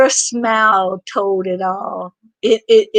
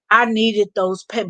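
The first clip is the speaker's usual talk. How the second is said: ordinary talk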